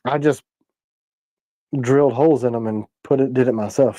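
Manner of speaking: talking while holding back a sneeze. Real, not acted. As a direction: suppress a sneeze mid-sentence. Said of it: "I'm trying not to sneeze".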